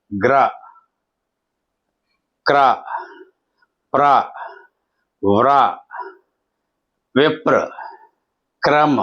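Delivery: half consonant straight into full r: గ్ర, క్ర, ప్ర; long pauses between గ్ర, క్ర, ప్ర, విప్ర, క్రమ; full-r demonstration. Shown as a demonstration. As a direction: model గ్ర, క్ర, ప్ర, వ్ర one at a time. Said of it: "రా పూర్తిగా పలికి".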